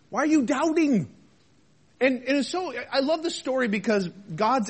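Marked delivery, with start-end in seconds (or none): 0.1-1.1 questioning challenge. Acted. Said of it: "what Jesus was asking Peter".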